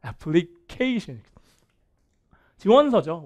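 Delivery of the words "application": "애플리케이션" with 케이 stressed, English rhythm; stress on KEI. Shown as a demonstration. Teacher modelling once more, stressed 케이 in "애플리케이션". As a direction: lean into 케이 in "애플리케이션". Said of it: "강세가".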